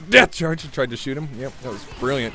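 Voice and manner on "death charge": calling out. Real, not acted. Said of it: "Did, did you hear me".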